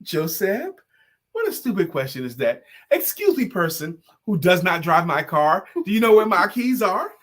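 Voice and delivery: mock indignant mom, pitch jumping up; mother scolding son. Retelling Jo Koy's mom scolding him, mock indignant. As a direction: play the exasperated mother. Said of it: "And she goes".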